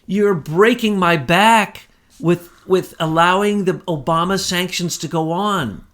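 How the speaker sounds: put-on drawn-out complaint with a poor Russian accent; Vladimir, Russian accent. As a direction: plead in a half-hearted Russian accent, stretching the words. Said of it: "I don't have a very good Russian accent".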